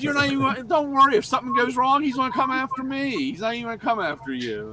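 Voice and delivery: high excited voice. Retold or imitated. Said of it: "And he goes".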